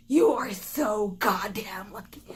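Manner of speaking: loud, strained mom scolding; mock-furious telling-off; yelling mother. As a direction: push the words out hard, imitating an exasperated mom. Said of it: "hears my mother yelling".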